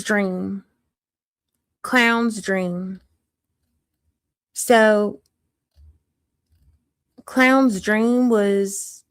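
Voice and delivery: lightly put-on Southern country accent, storytelling; a hint of rural Southern accent, chatty. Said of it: "how do you like my country accent?".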